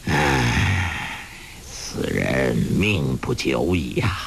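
put-on a weary old beggar lamenting a fallen rival; sighing. A narrator's reading. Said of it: "洪七公叹道".

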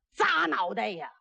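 mild mock battle yell; battle cry. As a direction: call out the blow as it lands. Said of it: "嘴里还喊呐".

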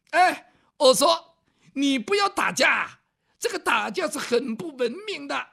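put-on a light southern accent, mildly pleading; a gentle scholar's southern lilt stopping a fight; southern-accented young scholar. Young scholar calming a brawler, light southern accent. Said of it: "说话带点南方味儿".

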